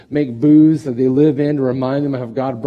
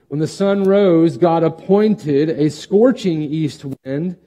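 raised, earnest Bible reading; scripture reading. Acted. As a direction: read the verses out to the church. Reads scripture passage.

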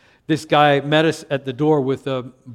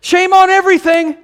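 high, loud comic outcry; hammed-up blanket denunciation; mock condemnation; 10 dB louder than usual. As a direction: shout it like a scolding zealot. Mocking church's reputation for condemning.

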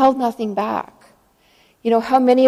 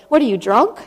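incredulous mock rebuke; mock accusation. Pastor to woman crying at the altar, mock accusing. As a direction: play a pastor blurting out an accusation.

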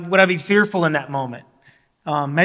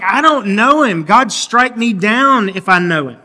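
loud, high, insistent swearing-off; vehement denial; 4 semitones higher, 7 dB louder than usual. Retold or imitated. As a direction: deny him at the top of your voice, swear it. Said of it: "he vehemently denies knowing Jesus".

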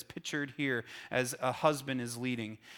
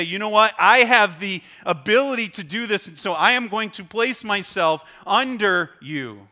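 voicing a willing wife; 5 semitones higher, 8 dB louder than usual.

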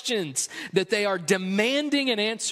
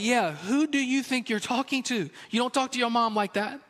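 a hint of a stern father, pitched up; dad's stern backup; 4 semitones higher than usual. Dad overhearing, backing mom with a lightly voiced stern warning.

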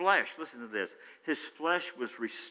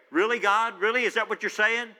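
incredulous; 7 semitones higher, 6 dB louder than usual. Acted. Preacher mocking a skeptical question.

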